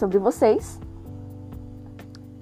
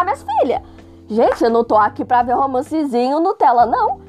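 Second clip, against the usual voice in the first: exasperated rant; 2 semitones higher than usual. Real, not acted. Ranting at slow romance.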